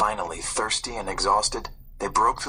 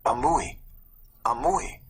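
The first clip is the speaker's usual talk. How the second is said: put-on boy beckoning; 3 semitones higher than usual. A narrator's reading. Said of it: "the boy beckoned".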